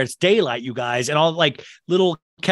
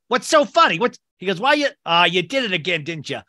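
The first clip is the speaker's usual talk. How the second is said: higher-pitched, exasperated crook impression; mock scolding; 4 semitones higher than usual. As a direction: lightly play a fed-up boss scolding his partner. Harry scolding Marv, acted out.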